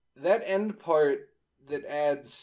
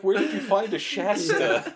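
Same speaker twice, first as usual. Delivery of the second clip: laughing; 7 semitones higher, 5 dB louder than usual. Pretend. Mock incredulous friends.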